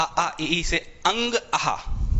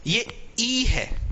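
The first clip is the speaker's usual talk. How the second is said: slow dictation; 6 semitones higher, much slower than usual. Shown as a demonstration. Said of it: "ये लिखते जाना ध्यान से".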